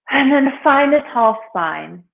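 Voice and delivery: guided meditation. Real, not acted. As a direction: ease them gently into stillness, unhurried. Begins guiding seated meditation.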